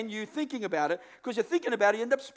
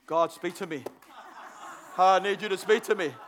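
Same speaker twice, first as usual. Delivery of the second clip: mock pleading prayer; 4 semitones lower than usual. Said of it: "Everyone's laughing 'cause you've all done it".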